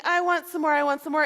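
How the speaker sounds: loud whiny chant; whiny demand. Acted. Hungry family at dinner, loud whiny chanting. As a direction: chant it like greedy kids.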